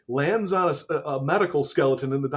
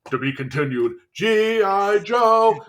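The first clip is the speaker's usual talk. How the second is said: announcer voice; 4 semitones higher than usual. Retold or imitated. Imitating the cartoon's closing announcer.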